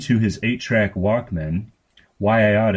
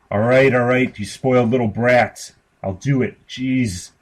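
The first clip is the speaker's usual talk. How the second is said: exasperated giving in; 4 semitones higher, 4 dB louder than usual. Acted. Brother gives in, exasperated.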